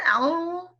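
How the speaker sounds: "Owl?" rising high as if confused; mock puzzled. Shown as a demonstration. Teacher pretends to be puzzled for the kids. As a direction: sound playfully puzzled at the wrong word. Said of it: "Is that a word?".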